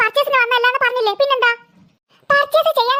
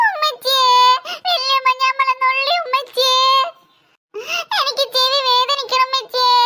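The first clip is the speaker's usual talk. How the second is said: fake crying; slower than usual. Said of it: "ഓന്റെ ഒരു കള്ള കരച്ചില്".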